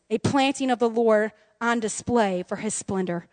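measured, low reading voice; scripture reading. Real, not acted. Preacher reading Isaiah to her friends, measured. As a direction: read the verse out with solemn weight.

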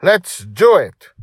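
high, loud, drawn-out rallying cry; slow, stretched, thrilled shout; whoop. A narrator's reading. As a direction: whoop it like a child off to battle. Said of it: "Dragon Little whooped".

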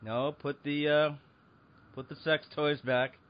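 slow, firm guard commands; deliberate authoritative order; stern mall cop. Pretend.

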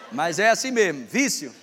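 usual speaking voice

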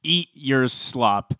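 mock the audience, leaning on each phrase; mock contempt. Co-host voicing producers addressing viewers, mock contempt. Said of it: "the contempt for the viewers".

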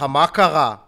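lightly imitated stand-up delivery, slow; deadpan comic set-up, taken slowly; Sagi Friedman. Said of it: "שים שגיא פרידמן".

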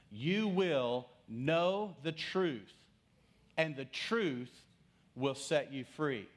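very slow solemn reading; slow scripture reading. Shown as a demonstration. Preacher reads John eight thirty-two to the church, very slow. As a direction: read each phrase slowly, with weight. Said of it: "Let me say it again".

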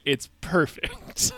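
slow, cracking up through it; laughing. Real, not acted. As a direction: say it while breaking into laughter. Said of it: "Which is per-, it's perfect".

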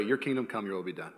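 low, hushed prayer fading out; quiet prayer. Shown as a demonstration. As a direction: let the prayer sink to a hush. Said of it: "I literally pray".

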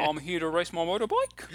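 broad mock-Kiwi accent; hammed-up Kiwi vowels. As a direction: poke fun with an exaggerated New Zealand accent. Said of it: "Kiwi accent that we all sort of quite make fun of".

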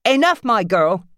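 mother silencing her daughter; shaking with anger. Acted. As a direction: cut her off furiously. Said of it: "Nancy's voice shook with anger".

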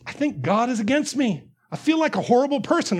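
distressed confession. Acted.

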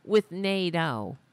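high whiny mock voice; mocking Greene. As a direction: sneer it like a greedy whiner. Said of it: "She's like".

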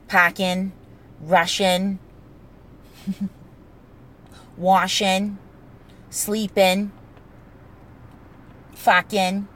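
New England G-dropping, packin' rushin'; packin', rushin', washin', sleepin', no final G; dropping word endings. Shown as a demonstration. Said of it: "we drop the G's".

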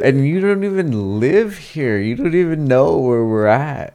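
loud, high mock scolding; mock angry. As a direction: chew out the friend, half joking. Retold yelling at friend driving.

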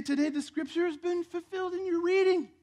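high, rising proclamation; proclaiming scripture. Acted. Preacher reads out Jesus in the synagogue, proclaiming scripture. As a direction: read it out as a ringing announcement.

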